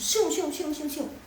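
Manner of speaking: quick mock swoops on SIUNG; exaggerated tone-following. Shown as a demonstration. Teacher joking about students overdoing head movements, exaggerated swoops. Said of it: "kalian ikutin langsung".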